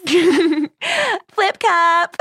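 high, hammed-up party cry; mock frat-guy call. Host imitates frat guys at a party, mock call.

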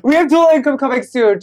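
high laughing quip. Real, not acted. Laughing joke.

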